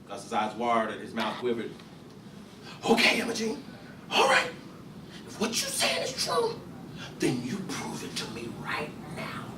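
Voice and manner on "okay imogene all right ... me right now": cold demand. Acted. Gus demands proof.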